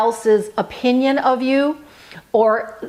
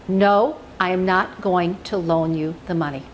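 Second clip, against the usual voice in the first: calm and loving; 5 semitones lower than usual. Shown as a demonstration. Refusing a friend's loan request calmly and lovingly. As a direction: say no calmly, with love, no edge. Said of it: "you just calmly, with love".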